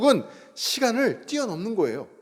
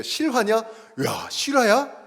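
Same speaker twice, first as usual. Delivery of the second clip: youth slang; 4 semitones higher, much slower than usual. Retold or imitated. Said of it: "우리 다음 세대들은 이렇게 얘기해요".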